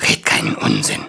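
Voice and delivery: deep, gruff dwarf. Acted. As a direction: say it low and gruff. Dwarf voiced low in story.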